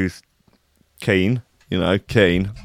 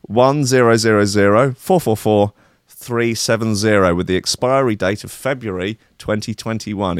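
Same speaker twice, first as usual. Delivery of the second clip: lottery number call. Pretend. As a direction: call each digit like a lottery ball. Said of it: "That number again".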